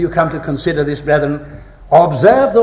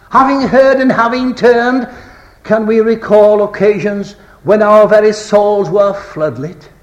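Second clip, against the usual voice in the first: raised, louder sermon appeal; impassioned preaching; 5 semitones higher, 5 dB louder, slower than usual. Real, not acted. Preacher challenging brothers and sisters, impassioned. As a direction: press the question on them from higher up.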